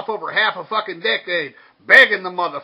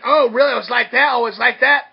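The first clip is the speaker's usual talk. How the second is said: mock offended girlfriend; 3 semitones higher, 6 dB louder than usual. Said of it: "she's gonna try to spin it".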